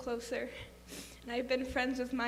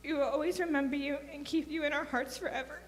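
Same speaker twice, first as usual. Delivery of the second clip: a hint of tears in the voice; holding back crying as she reads; tearful; 3 semitones higher than usual. Real, not acted. Friend reading farewell letter to Joe, tearful.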